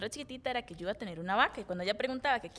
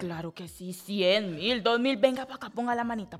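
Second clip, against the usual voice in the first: grandma voice; 3 dB louder than usual. Pretend. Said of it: "Hágame voz de abuelita".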